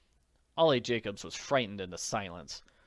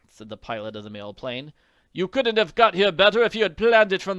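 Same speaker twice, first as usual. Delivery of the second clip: hearty pilot; 5 semitones higher, 8 dB louder than usual. Acted. Grateful pilot recounts.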